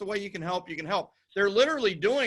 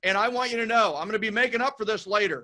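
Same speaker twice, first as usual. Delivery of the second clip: earnest promise to family; 4 dB louder than usual. Pretend. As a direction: pledge it to your family like you mean it. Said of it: "Tell your family now".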